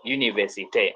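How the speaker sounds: "université" low, ending in a clear "-té"; French pronunciation. Shown as a demonstration. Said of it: "So we say".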